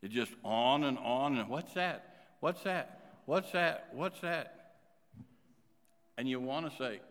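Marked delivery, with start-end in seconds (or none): 1.5-4.8 lightly imitated child asking on and on; pestering kid. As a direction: repeat it insistently like a kid who won't quit. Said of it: "won't quit asking questions".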